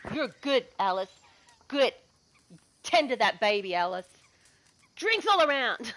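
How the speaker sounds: loose, rambling tipsy praise, sometimes loud; drunk bushranger. Retold or imitated. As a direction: play the merry drunk host. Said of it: "He's like".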